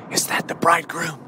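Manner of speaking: low, hushed, peering into the dark; hopeful virgin. Acted. Virgin peering into the darkness for the bridegroom, hushed and hopeful. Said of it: "And she's saying".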